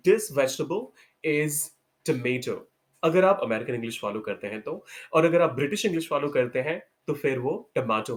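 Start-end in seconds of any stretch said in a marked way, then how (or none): 2.1-2.6 tomato as tuh-MAY-toh, weak first vowel; American tomato, stressed MAY; correct American tomato. Shown as a demonstration. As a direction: model tomato slowly. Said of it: "The actual pronunciation of".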